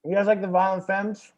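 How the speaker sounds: talking through a crunchy bite; words round a mouthful of pretzel; mouth full. Real, not acted. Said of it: "Are you eating plastic?".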